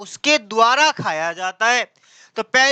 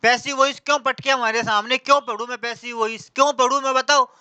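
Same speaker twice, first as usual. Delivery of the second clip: mock rant of a fed-up pupil, a little fast; complaining student; 3 semitones higher than usual. Teacher imitating a student ranting about the syllabus, hammed-up. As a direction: grumble at the syllabus makers like a sulky student. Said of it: "कह रहा".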